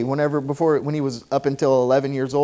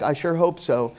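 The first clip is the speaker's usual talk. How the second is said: doubtful shrug. Retold or imitated. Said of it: "it's not hope like".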